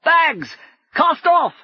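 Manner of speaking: very high, loud order; commanding shout. Acted. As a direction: bark the order upward. Brumman ordering the airship away.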